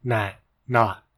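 "Not" with one flat vowel; Texan flat vowel. Shown as a demonstration. Co-host trying the Texan "Not" for night. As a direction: repeat "Not" flat, no glide. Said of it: "night becomes more like not".

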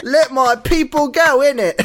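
put-on British Jewish accent. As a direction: ham up a Cockney Jewish mum.

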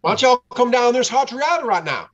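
badly faked Southern accent. Shown as a demonstration. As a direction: coax them over in a shaky-quality Southern accent. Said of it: "give me a Southern accent".

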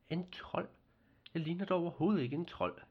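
a huffy little nisse taking offence; grumpy nisse. Acted. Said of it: "sagde nissen og kiggede tvært".

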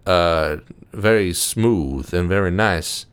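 slow, smooth, lightly voiced Billy Dee Williams; Billy Dee Williams impression. Reviewer imitating Billy Dee Williams's slow smooth delivery. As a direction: drawl each word out, smooth and easy. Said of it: "and he talks kind of like this".

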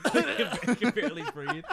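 slow, high, laughing through the words. Real, not acted. Host laughing while describing dying old passenger, laughing slowly. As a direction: squeeze the words out between laughs.

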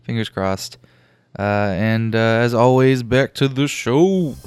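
echoey room recording; big hall echo. Real, not acted. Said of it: "sorry for the echoiness".

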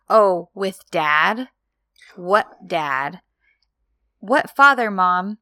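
hammed-up angry son; mock angry outburst. Son to mother about absent father, mock angry.

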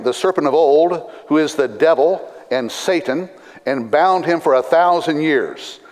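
measured, deliberate Bible reading; scripture reading. Acted. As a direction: read scripture aloud to a congregation. Reads scripture aloud to congregation.

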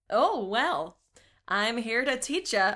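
put-on slow, drawn-out Midwest accent; folksy Midwest accent, stretched out. Host introducing what she will teach today, accidental Midwest accent. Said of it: "I don't know why I went Midwest".

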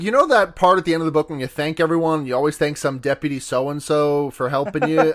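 a light, non-Pennsylvania put-on accent; hint of a made-up regional accent, lightly done; vague put-on accent. Host voicing the deputy asking for thanks, light put-on accent. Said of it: "I don't know why I'm giving him this accent".

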